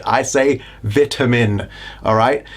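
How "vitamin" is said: "vitamin" slowly, with a short i; "vitamin" starting like "vit", not "vite"; British pronunciation. Shown as a demonstration. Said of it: "I'm British, so that's how I say it".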